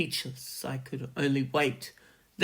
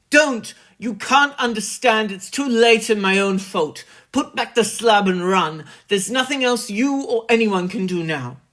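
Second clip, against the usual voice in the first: high, loud despairing scream; 6 semitones higher, 8 dB louder than usual. A narrator's reading. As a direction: scream at him not to come. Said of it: "a scream of utter despair".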